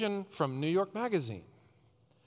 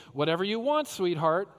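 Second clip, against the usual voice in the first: put-on sweet, higher, louder coaxing to a child; hammed-up doting parent giving in; indulgent parent; 4 semitones higher, 4 dB louder than usual. Preacher mimicking parents who indulge their kids, sugary and doting.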